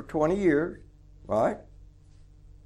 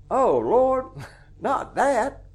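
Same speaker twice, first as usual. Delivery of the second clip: laughing plea; 6 semitones higher, much slower than usual. Retold or imitated. Joe balking, laughing.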